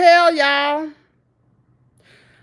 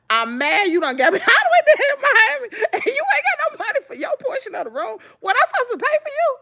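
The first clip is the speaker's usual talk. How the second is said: laughing rant; 10 semitones higher, faster than usual. Retold or imitated. Ranting at the friend.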